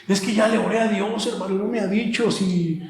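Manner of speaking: put-on voice of someone justifying themselves; mock excuse-making. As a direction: make the excuse sound mildly whiny. Voices believer excusing themselves to pastor.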